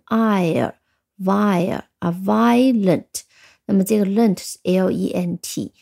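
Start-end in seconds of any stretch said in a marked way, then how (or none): 0.1-3.2 "ire", "vire", then "violent", built up slowly; teacher building "violent" piece by piece from "ire"; sounding out. Shown as a demonstration. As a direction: slowly model the diphthong, then the whole word "violent". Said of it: "读成ire".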